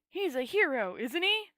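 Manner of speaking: boom. A narrator's reading. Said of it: "boomed an expansive voice".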